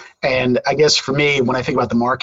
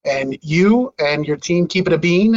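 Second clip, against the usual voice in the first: ordinary delivery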